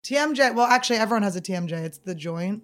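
speaking around a mouth guard; words shaped around a mouthguard; wearing a mouthguard. Real, not acted. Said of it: "why is this mouth guard in".

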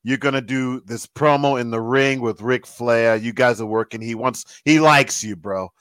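lightly imitated accent of a wrestling writer; Vince Russo. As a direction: mimic the writer's accent while breaking big news. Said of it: "He's got that accent".

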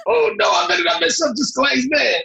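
very high, comic squeak of alarm; mock panic. Actor retelling his reaction to the star's temper, mock panic. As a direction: squeal it like someone comically scared of slipping up.

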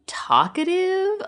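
talkative pitched high and stretched very slowly; exaggerated inflection. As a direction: sing out talkative high and slow. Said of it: "the inflection in your voice when you said talkative".

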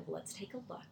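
put-on soft, unhurried reply to a child; imitating a patient grandparent; calm grandparent. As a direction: answer very calmly and softly. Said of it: "they're very calm".

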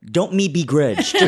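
garbled line through laughter; laughing. Pretend. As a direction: mangle it while laughing. Teasing garbled repeat.

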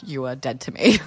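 whispered, mock cold. Telling her boyfriend goodbye, mock whisper. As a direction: whisper it like a joke curse. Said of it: "I'm like".

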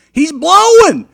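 very high, very loud yell; guy in the back shouting in the silent church. Retold or imitated. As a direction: bellow it across the church. Man shouting in quiet church.

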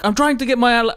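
lightly acted exasperated man; frustrated. Podcaster imitates a naked man chasing his laptop, frustrated. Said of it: "And he gets frustrated".

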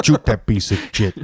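"Shoot" said "choot", "shit" said "chit"; hard CH opening "Shoot" and "shit". Retold or imitated. Echoing the movie gangster, "Shoot" turned into "choot". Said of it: "that's a lot of choots".

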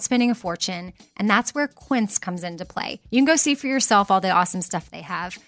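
easy conversational sponsor read; host reading a Quince sponsor spot. Acted. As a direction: pitch it like a friend's tip.

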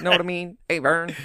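a light nod to Ernest's catchphrase. Retold or imitated. A friend quotes Ernest's catchphrase to a co-host, lightly voiced. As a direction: toss off a mild Ernest line. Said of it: "all I can say is".

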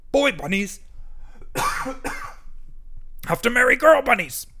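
high, loud, pompous squawk; the stink bug lectures the bunnies, loud and pompous; bossy stink bug. A narrator's reading. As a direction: bark the rule like a self-important bug. Stink bug lays down rule.

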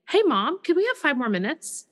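put-on a child's high, polite request; respectful and calm. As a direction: ask sweetly and calmly, like a good kid. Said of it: "With respect and calmness".

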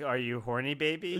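hint of a British swinger purr; lightly voiced Austin Powers.

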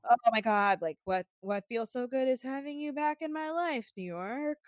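flat monotone robot voice. Retold or imitated. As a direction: say it like a bored robot. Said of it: "monotone, weird robot voice".

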